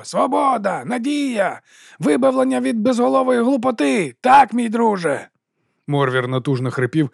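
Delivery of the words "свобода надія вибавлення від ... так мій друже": hammed-up slogans. A narrator's reading. Morvir hams crowd slogans.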